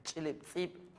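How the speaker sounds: véndeme osh said high and slow, like a shopper; mock buyer. Shown as a demonstration. Teacher plays a customer at the shop, slow and high. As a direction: play the customer asking to buy.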